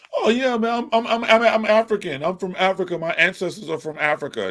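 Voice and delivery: high, eager proud voice; mocking his younger self. Mimicking his past self to the chat, high and eager. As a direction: play the naive kid bragging about Africa. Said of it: "I grew up living".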